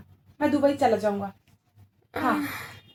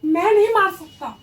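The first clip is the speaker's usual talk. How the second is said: desperate cry; 3 semitones higher, 6 dB louder than usual. Acted. Repeated, desperate.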